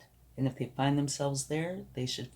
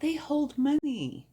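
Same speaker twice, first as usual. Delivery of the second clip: much higher, slow, delighted; high excited; 13 semitones higher than usual. Real, not acted. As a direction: squeal it like a happy reveal. Revealing the purse card.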